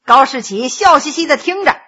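usual speaking voice

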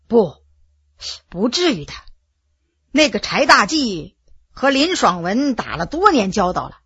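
lightly voiced veteran, deliberate and subdued; pondering veteran general. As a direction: think it through softly for a comrade.

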